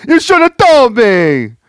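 high, loud, slow wrestling boss voice; Pat Patterson. Retold or imitated. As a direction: shout it as an outraged old wrestling boss. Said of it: "Do you think Pat Patterson just shows up".

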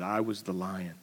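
low large voice. Acted. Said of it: "And the voice said".

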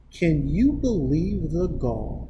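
slow, laughing at the words; laughing through quote. Retold or imitated. Dad retells his daughter's outrage, laughing. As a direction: giggle through the kid's outrage.

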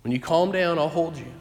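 calm reassurance. Retold or imitated. Parent soothing crying daughter.

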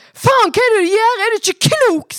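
high, loud outraged yell; screaming in sudden rage; furious shout. Acted. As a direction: explode at mother at full voice. Phone snatched, daughter explodes at mother.

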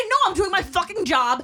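imitated security guard. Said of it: "He's gonna say".

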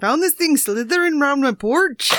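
hammed-up, dubious Southern English accent. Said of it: "That's your best Southern English accent".

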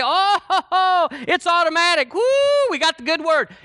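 high, whooping celebration; mock glee. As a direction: crow with laughing "oh ho ho" delight. Mocks overjoyed receivers of a word.

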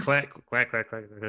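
quacking like a duck. Retold or imitated. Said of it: "What was that sound?".

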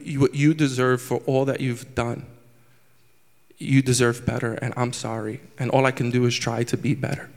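low, softening, heartfelt apology; sincere apology. Real, not acted. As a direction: apologize gently to your mother, voice dropping. Sincere public apology to his mother.

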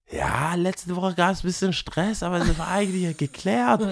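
imitating the group. Friends explaining to the bouncer, lightly imitated and sheepish. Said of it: "Und dann die so".

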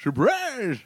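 high, sudden shouted surprise; spring out with a shout; jump scare shout. Retold or imitated. Crazy Ralph jump scare.

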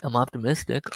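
talking while crunching ice. Real, not acted. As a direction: chew ice between words. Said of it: "Can you hear me crunching ice?".

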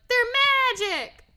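high, loud, slow warning; ominous uncle ghost. Retold or imitated. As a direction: draw it out like a dire secret. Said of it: "And he's like".

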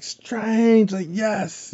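high, delighted cry; happy exclamation. Retold or imitated. Wong greeting Strange, high overjoyed cry. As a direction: cheer it out overjoyed. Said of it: "in a very happy way".

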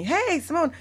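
high, hammy French caller greeting; mock French hello; bad French accent. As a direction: stretch it out like a bad French impression. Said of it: "I always do a bad French accent".

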